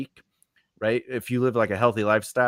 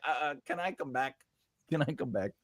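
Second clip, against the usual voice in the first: soft, tentative aside; acted quiet, awkward request; hushed polite excuse; 12 dB quieter than usual. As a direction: quietly ask to slip away, much softer. Asking to leave a smelly office.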